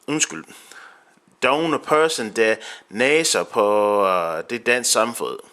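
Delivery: Danish read in an American accent. Real, not acted. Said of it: "Sorry if I sound like I'm chewing on bad kartofler".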